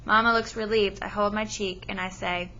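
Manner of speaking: steady read-aloud storytelling to a class; story narration. Acted. Teacher reading a novel to her class, storytelling voice. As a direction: read the chapter to the students, even and clear.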